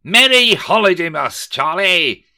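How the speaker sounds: high, loud greeting; bellowing. A narrator's reading. Scrooge greeting his clerk with a bellow. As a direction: boom it across the office. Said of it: "Rishi Scrooge bellowed".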